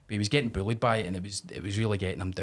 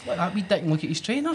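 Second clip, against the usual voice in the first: Glaswegian jeer; 7 semitones higher than usual. Retold or imitated. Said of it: "the way only a Glaswegian can".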